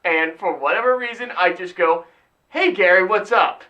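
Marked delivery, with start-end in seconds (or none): 2.5-3.6 louder, casual mock greeting; calling out greeting. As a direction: hail a buddy as you walk up. Acted greeting to a friend.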